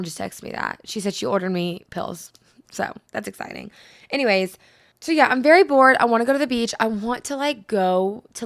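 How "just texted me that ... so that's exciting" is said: hushed unvoiced whisper. Real, not acted. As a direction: drop to a secret whisper. Sudden hushed aside.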